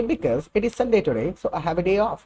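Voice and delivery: very slow, careful English for repeating; slow, deliberate classroom reading; slow model sentence. Shown as a demonstration. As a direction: lay it out slowly for students. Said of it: "तीसरे तरीके से आप बोल करके देखिए".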